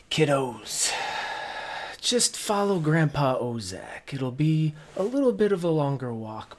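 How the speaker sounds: lightly voiced old grandpa; gentle hint of an old man. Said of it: "in his grandpa voice and says".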